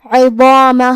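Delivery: عظامہ with a full, heavy ضا; heavy letters. Shown as a demonstration. Teacher demonstrating heavy tafkheem. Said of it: "بھاری آواز میں ادا کریں گے".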